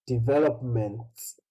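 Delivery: developments ending in an audible ts; careful teacher's model of developments with its s; final S pronounced. Shown as a demonstration. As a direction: sound the s closing developments. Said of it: "When there's an S".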